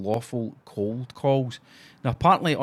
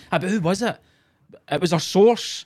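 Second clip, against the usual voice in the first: mock evasive reporter; 6 semitones higher, 4 dB louder than usual. Mocking reporter source back-and-forth.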